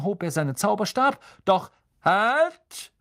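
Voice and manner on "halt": sudden high, loud halt; Lupin. A narrator's reading. Teacher jumping in before Harry, sudden shout. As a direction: call out abruptly to stop everyone. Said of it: "rief Professor Lupin plötzlich".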